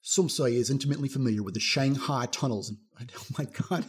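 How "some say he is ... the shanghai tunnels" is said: slight accidental Southern accent. Real, not acted. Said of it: "did I do a Southern accent".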